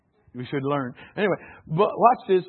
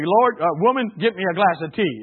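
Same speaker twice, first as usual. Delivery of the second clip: mock bossy husband; 6 dB louder than usual. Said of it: "See if you can say".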